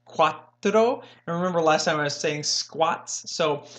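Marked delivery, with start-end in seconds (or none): 0.1-1.0 "cuatro" with a tapped R, like "quat-ditto"; Spanish cuatro. Shown as a demonstration. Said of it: "pronunciation of the flipped R's".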